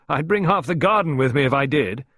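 high, loud, hearty countrywoman; Miss Peake. A narrator's reading. Gumbooted visitor joking about her boots, hearty. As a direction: boom out the joke jovially. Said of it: "Again she laughed".

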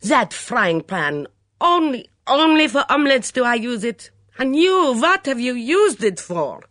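put-on high, loud foreign-accented outrage; furious torrent. A narrator's reading. Mitzi scolding over her kitchen pans, in a furious torrent. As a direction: rant indignantly, wailing up to a peak. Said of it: "Mitzi burst into a torrent of words".

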